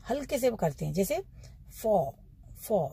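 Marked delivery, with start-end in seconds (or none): 1.8-2.9 for with the r barely touched; soft r sound. Shown as a demonstration. Teacher demonstrating the soft r, lightly. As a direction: say for with only a light r. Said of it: "ओआर की sound को कैसे बोलना".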